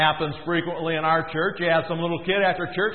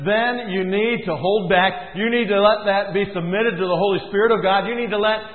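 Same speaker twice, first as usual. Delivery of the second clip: voice of God; 2 semitones higher than usual. Retold or imitated. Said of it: "he says".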